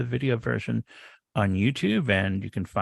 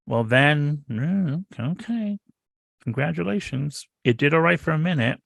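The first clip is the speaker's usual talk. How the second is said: sarcastic congratulations; 4 semitones higher than usual. Acted.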